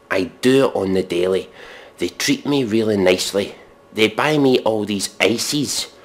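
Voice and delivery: earnest poetry-reading voice for pop lyrics; mock solemn recital. Shown as a demonstration. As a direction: read the lyrics like profound poetry. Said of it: "Here's the next verse or chorus".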